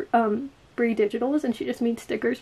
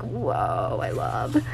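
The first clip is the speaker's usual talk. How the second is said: amazed; 14 semitones lower, 4 dB quieter, much slower than usual. Real, not acted. Reacting to cute stickers.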